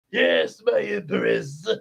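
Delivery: bow and answer your empress slowly; minion reply. Retold or imitated.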